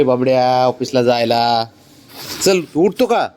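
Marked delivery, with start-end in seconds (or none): 2.4-3.3 higher, coaxing voice to the dog; coaxing pet talk. Real, not acted. Owner coaxing sulking dog Babdya to get up, higher coaxing pet talk. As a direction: sweet-talk the stubborn dog up.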